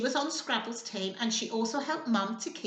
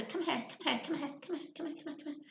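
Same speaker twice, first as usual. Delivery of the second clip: fading call; 2 semitones higher, 10 dB quieter, much faster than usual. Real, not acted. Calling a child over.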